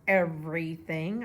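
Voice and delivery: loud, drawn-out angry holler. A narrator's reading. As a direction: shout it at Mama, slow and furious. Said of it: "I hollered".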